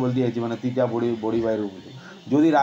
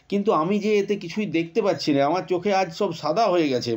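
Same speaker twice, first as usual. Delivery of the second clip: put-on a higher, childlike plea; higher sick child; 4 semitones higher than usual. Amal tells the headman he sees nothing, child voice. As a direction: sound young and lost. Sick boy going blind.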